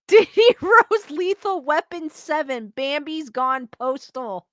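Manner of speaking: reading it out slowly through laughter; slow, amused read breaking into laughs; laughing. Real, not acted. Streamer reading a joke movie title from chat, laughing. Laughing as she reads a comment.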